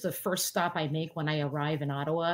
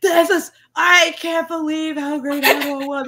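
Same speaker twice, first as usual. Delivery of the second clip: high, louder gushing; 9 semitones higher, 8 dB louder than usual. Retold or imitated. Retelling herself gushing over her radio. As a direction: rave to yourself while cleaning. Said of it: "I was like".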